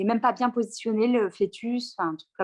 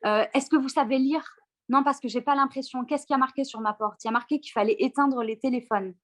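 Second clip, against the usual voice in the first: lightly voiced angry doctor scolding a patient; 3 semitones higher than usual. Doctor scolding the pregnant patient, mild mock anger. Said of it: "il me pourrit littéralement".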